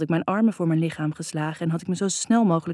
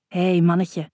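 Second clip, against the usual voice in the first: soft tender greeting; 3 dB louder, slower than usual. A narrator's reading. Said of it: "zegt hij zacht".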